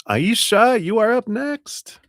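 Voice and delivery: high, loud call to the next person. Real, not acted. Calling Aisha up as the next client, high and loud. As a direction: announce the next turn brightly.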